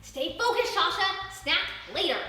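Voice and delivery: high, loud rapid-fire checks; frantic searching. Acted. Sasha searching every spot for Shiloh, high frantic calls. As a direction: scold yourself to stay on task.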